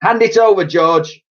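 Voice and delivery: high, loud order; demanding hag. A narrator's reading. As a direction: grab for the cup. Grandma demanding.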